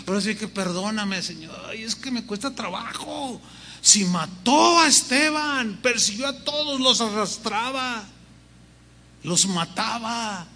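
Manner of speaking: a touch of reluctant whining, pitch jumping up; hesitant protest, hard to obey; mildly voiced worried Ananías pleading; reluctant complaining.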